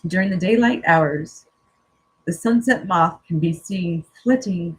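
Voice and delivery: calm, measured reading of a card message; reading aloud. Acted. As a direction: read it out gently and evenly, like a spiritual message. Reads oracle card text aloud.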